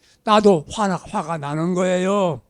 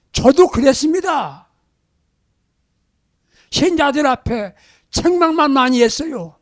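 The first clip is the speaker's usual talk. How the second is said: ordinary talk, nothing marked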